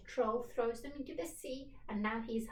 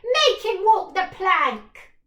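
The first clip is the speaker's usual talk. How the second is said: pirate yell; 9 semitones higher, 19 dB louder than usual. Acted. Pirates demand plank walking.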